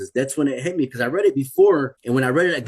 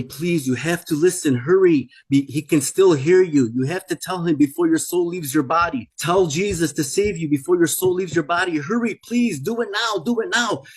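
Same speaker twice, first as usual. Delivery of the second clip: urgent plea climbing higher and higher; desperate begging; 3 semitones higher than usual. Retold or imitated. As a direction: beg them insistently, as the angel's retold voice, rising in pitch. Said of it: "It was begging me".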